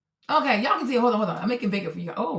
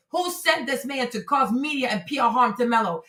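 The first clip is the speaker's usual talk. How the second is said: ordinary talk, nothing marked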